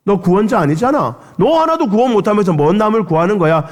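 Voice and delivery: retold mocking crowd; mocking jeer. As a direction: scoff at his claim. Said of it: "사람들이 조롱했었죠".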